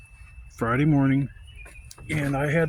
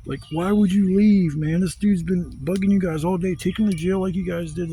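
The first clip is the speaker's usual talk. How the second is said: raised, exasperated protest; retold yelling; 5 semitones higher than usual. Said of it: "and I yell".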